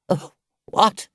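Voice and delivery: high, excited Toad squeak; Toad's voice. Acted. Toad taken aback by the gypsy's offer, high and startled.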